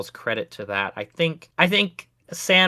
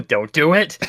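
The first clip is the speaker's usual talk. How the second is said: mild mock warning, lifting at the end; a first playful caution; 2 semitones higher, 4 dB louder than usual. Guard warning the player off the tree, mock warning.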